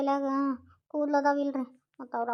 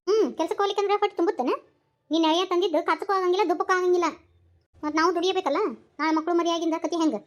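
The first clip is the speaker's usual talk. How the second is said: loud, high-pitched nagging; acted exasperated tirade at her mother; scolding complaint; 4 semitones higher, 5 dB louder than usual. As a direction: complain hotly, pitch and volume up. Scolding mother over money and son-in-law.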